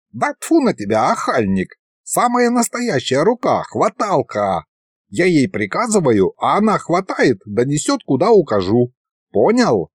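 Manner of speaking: a hint of an indignant old sorcerer; lightly voiced grumpy old wizard. Wizard explains the hand. (слегка ворчливый старый колдун)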